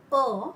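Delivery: E said as a drawn-out "uh"; French E sound. Shown as a demonstration. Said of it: "the sound of vowel".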